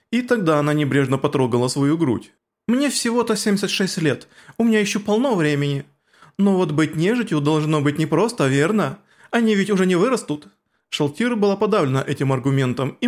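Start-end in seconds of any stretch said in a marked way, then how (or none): 2.7-10.5 put-on higher smug girl voice; gloating girl. Aura gloating.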